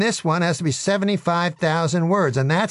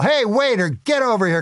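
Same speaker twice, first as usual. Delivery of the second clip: yelling; 5 semitones higher than usual. Acted. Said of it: "And I yell".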